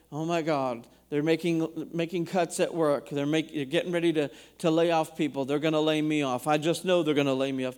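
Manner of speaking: low, hurried imitation of fretting; mock worried thought. Preacher voicing bad thoughts about layoffs at work, mock worried. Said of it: "we arrest these bad thoughts, these thoughts that say".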